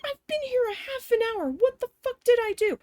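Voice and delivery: high-pitched indignant protest; bewildered protest. Retold or imitated. Acted protest to screaming manager.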